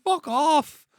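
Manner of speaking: squeaky, laughing fuck off; high laughing voice. Retold or imitated. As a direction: giggle it out high. Joking mimicry of character.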